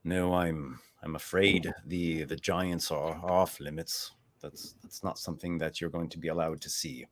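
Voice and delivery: mounted elven soldier refusing entry. Acted. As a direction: firmly turn him away. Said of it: "He says".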